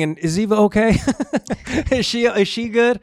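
high, loud mock worry; fake-fret about her loudly; playful overblown concern. Real, not acted.

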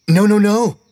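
put-on high, loud insistent kid; eager pleading. A narrator's reading. Steve begging Mister Carter, high loud plea. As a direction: beg him to keep going.

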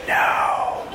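forceful whispered refusal; whispered reply. Retold or imitated. Arguing back at the little inner voice, whispering. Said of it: "And I whisper back".

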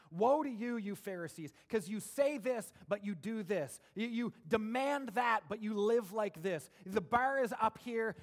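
loud, rising condemnation of hypocrites; Jesus furiously rebuking the Pharisees, loud and forceful; furious rebuke. Retold or imitated. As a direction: thunder it at the Pharisees. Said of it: "he's just furious".

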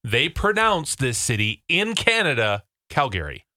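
Calgary with a clear "gary" ending; Canadian-family pronunciation. Shown as a demonstration. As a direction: say Calgary as "Cal-GARE-ee". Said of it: "the way I pronounced a Canadian".

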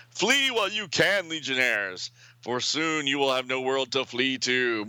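grand villain threat, hammed up; hammy villain. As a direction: chew the scenery as a gloating villain. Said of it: "Someone is chewing the scenery".

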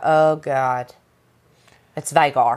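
low, sinking mock dread; acting out a rider's dawning dread, pitched low; retold dread. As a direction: drop the voice into an understated "uh-oh".

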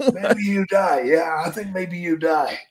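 mocking Japanese accent, the last words slow. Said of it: "I got this old Japanese doctor".

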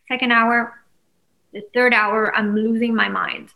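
usual speaking voice

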